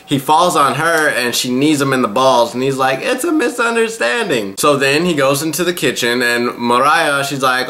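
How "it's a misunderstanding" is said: squeaky, much higher pained voice; a high hammed-up yelp of an excuse; pained protest. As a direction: squeak it out like you just got kneed. Kneed in the balls, protesting.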